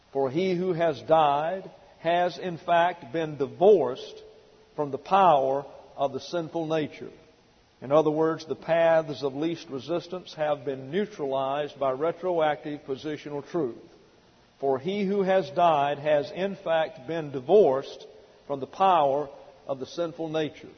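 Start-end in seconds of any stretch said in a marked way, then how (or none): 0.1-7.1 scripture reading. Acted. Reads out scripture verse. 14.6-20.7 scripture reading. Acted. Reads the verse again.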